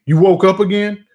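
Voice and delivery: mock exasperated wife; imitating annoyed wife. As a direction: throw it at him like she's fed up. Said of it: "she can't fucking stand to see me".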